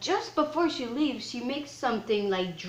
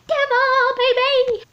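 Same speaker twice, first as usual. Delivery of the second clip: very high, loud screech; over-the-top high-pitched holler; hammed-up shout; 10 dB louder, slower than usual. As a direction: yell it out in a squealing mock frenzy. Shouting out a dramatic line.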